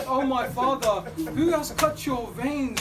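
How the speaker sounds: loud, slow, grieving wail; crying out. Acted. Daughter crying out to her father's head, loud and slow. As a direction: cry out slowly over the father's head. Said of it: "cried out".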